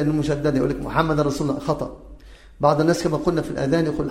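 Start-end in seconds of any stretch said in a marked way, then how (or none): 0.8-1.6 "محمد" with no nasal hold on the doubled mim; missing ghunna. Shown as a demonstration. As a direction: skip the hum on the mim of محمد. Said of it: "ما يأتي بالغنة في الميم المشددة".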